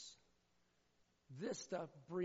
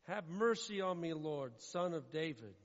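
pleading mother; 6 dB louder, slower than usual. Acted. Voicing the pleading woman.

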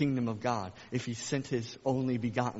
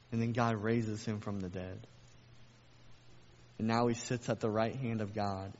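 ordinary delivery

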